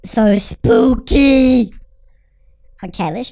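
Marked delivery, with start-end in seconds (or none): 0.1-1.7 mock spooky. Comment after scary scene.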